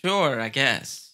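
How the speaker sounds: slow, drawn-out grudging yes; hesitant, retold concession; reluctant agreement. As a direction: give in reluctantly, stretching it out.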